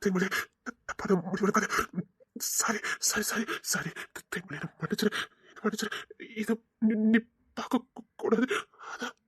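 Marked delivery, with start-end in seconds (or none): 2.6-5.9 hushed plea for forgiveness; softer, remorseful plea; soft begging. Acted. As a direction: beg quietly, broken.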